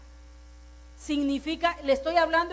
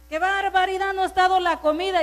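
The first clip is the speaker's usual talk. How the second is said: mock angry husband; 4 semitones higher, 7 dB louder, faster than usual.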